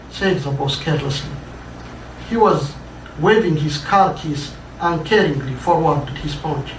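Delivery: measured, dramatic read-aloud narration; story reading. A narrator's reading. Author reading his own story to an audience, dramatic narration. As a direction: tell the tale to a listening audience.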